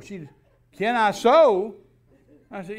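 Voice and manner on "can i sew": high, very loud, drawn-out disbelief; mock incredulity. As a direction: throw it back as an outraged, slow echo. Wife incredulous at his question.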